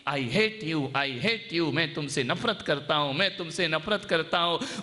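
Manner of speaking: mountain echo. Retold or imitated. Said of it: "इको बन के आई".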